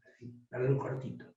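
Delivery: dropped, quick and soft; quiet voice. Shown as a demonstration. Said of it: "yo puedo bajar la voz".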